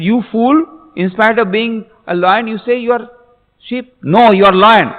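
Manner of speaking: high-pitched, emphatic storytelling rebuke; scolding big lion. Acted. Big lion correcting the cub who claims sheephood, scolding. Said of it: "The big lion said".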